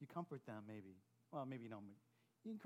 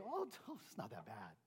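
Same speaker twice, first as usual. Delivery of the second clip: laughing brush-off; 7 semitones lower, 5 dB quieter than usual. Shown as a demonstration. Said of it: "They don't want you to say".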